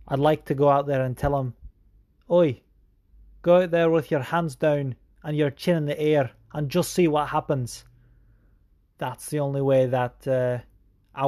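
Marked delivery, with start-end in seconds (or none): 2.3-7.9 a badly faked British cornerman accent; mild mock British accent; British dialect. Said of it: "So terrible, my, my dialect".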